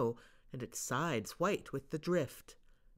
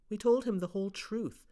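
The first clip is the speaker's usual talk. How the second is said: plain reading voice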